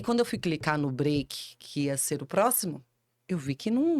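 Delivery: normal talking voice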